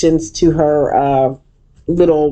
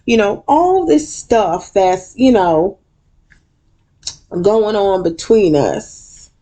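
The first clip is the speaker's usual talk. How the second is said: much higher, slow and sugary; hammed-up Quad; 7 semitones higher, slower than usual. Quad addressing the room, high sugary voice. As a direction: play Quad reaching out sweetly. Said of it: "Then she goes to Simone".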